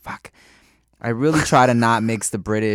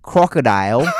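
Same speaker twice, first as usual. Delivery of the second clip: mock Aussie, louder than chat; Australian accent; 5 dB louder than usual. Shown as a demonstration. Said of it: "equation for Australian accent".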